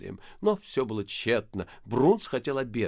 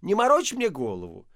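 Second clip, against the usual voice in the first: shouting; 5 semitones higher, 4 dB louder than usual. A narrator's reading. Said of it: "закричал женский голос из комнаты".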